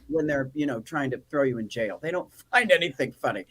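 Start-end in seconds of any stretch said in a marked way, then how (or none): 2.0-3.5 whisper. Real, not acted. Wry aside about the police.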